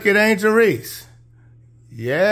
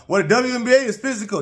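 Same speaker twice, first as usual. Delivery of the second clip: mocking critics; 5 semitones higher, much faster than usual. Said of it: "so when y'all talking about".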